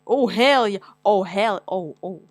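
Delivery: loud, gleeful hell yeah; loud delight. Real, not acted. Vlogger reading his personality results, gleefully loud. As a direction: cheer at the test result.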